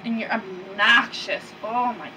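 slow, drawn-out disdain; exasperated scolding. Acted. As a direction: stretch each complaint out in exasperation. Scolding him for being loud.

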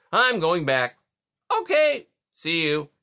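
a sleepy beaver calling across the pond. Acted. Beaver dialogue.

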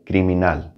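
criminal in Spanish, C said as hard K; criminal, Spanish pronunciation opening on K. Shown as a demonstration. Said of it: "hard K".

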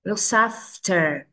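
"Looks after" slow, the s joined to "after"; linked sounds. Shown as a demonstration. Teacher shows children linking, "Looks after" slowly joined as "look-safter". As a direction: carry the end of "Looks after" across the words. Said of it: "Nối nhanh".

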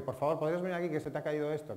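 courteous, even request; polite request. Shown as a demonstration. Teacher shows the polite way to call someone, courteous. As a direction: ask kindly as if it were an accident. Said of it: "O te puedo decir".

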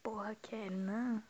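slow exasperated whisper; annoyed whispered curse; frustrated whisper. Real, not acted. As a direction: breathe it out under your breath. Frustrated aside while playing.

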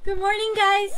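high-pitched morning hello; cheery waking greeting. Acted. Girl waking among friends at a sleepover, cheery.

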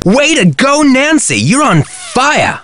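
high, thrilled praise; excited cheer. Acted. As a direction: cheer her on, pitch up. Activist cheers Nancy's success.

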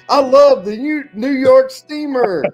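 mock enthusiastic. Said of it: "making me feel bad now about going".

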